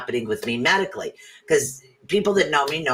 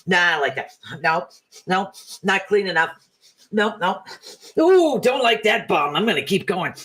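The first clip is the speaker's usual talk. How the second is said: voicing a dog; 4 semitones higher than usual. Playing a dog sniffing for a spot, picky higher voice. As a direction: talk like a fussy dog choosing a spot. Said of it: "a dog just walking around going".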